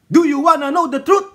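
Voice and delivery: loud, high mock-dramatic quote; hammed-up courtroom shout; movie quote shout. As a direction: belt the line like the film. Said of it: "Ika nga dun sa ano, A Few Good Men".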